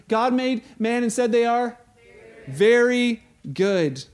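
slow, emphatic very good; call and response. Shown as a demonstration. Preacher leads listeners in saying it together, slow and emphatic. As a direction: drag out very good for them. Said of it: "Let's play along".

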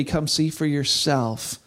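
slow, drawn-out come see for yourself; slow invitation. Acted. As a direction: linger on each word of "Come see for yourself". Repeated invitation.

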